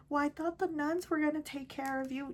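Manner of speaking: a light high mom voice, breezy; imitating mom. Mother excusing herself to her daughter, light high imitation. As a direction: toss it off like a careless excuse. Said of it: "my mom always has the same answer".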